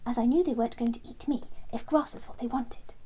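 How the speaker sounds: lightly voiced, pleased recollection; Terence, sure now. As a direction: tumble out the memory with growing certainty.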